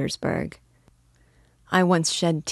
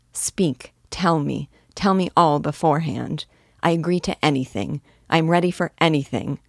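delighted cry. Acted. Young man begging to hear her terms, delighted. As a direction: pour it out, eager and overjoyed. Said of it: "I cried, delighted".

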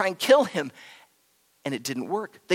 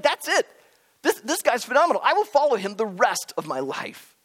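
excited vow; 4 semitones higher than usual. Retold or imitated. Disciple's imagined excited vow.

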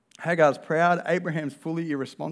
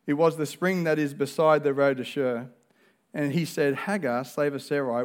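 scripture reading; 2 semitones lower than usual. Acted. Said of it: "we read".

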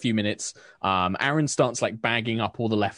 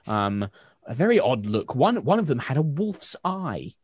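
higher, gossipy shopkeeper voice; chatty baker; 8 semitones higher than usual. Acted. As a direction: baker gossips to the Baroness about soldiers, higher. Susan gossiping about soldiers.

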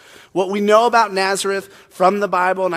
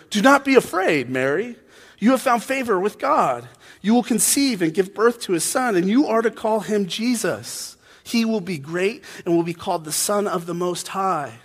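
socially awkward angel; 3 semitones higher than usual. Acted. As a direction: proclaim good news as an awkward angel. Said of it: "I'm doing a weird voice for Gabriel the angel".

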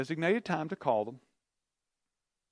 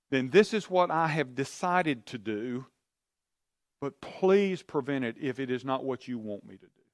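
model prayer; 4 dB louder than usual. Shown as a demonstration. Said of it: "then here's what you do".

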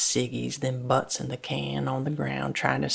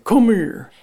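repeated call pitched up; calling out, higher; 8 semitones higher, 12 dB louder than usual. A narrator's reading. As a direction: call her over again, louder. Daddy calls Lucy again.

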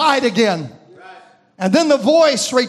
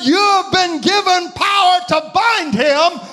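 raised, slow proclamation as a heavenly voice; voice from above; 4 semitones higher than usual. Retold or imitated. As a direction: declare it from on high, slowly and higher. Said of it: "a voice came from above".

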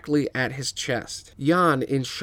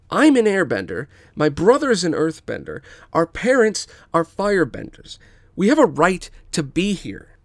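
loud, raised defense; sibling defending adopted family; defiant; 5 semitones higher, 5 dB louder than usual. Acted. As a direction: stand your ground out loud.

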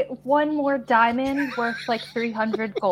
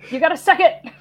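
raised, higher calling voice; yelling over; 6 semitones higher, 7 dB louder, much faster than usual. Acted. Player yells over to Asher for a word, calling out. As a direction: call it across to a companion. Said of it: "yell over to".

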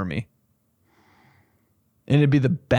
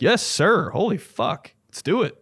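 eager recruit; 7 semitones higher than usual. Acted. Acts recruit obeying dog commander.

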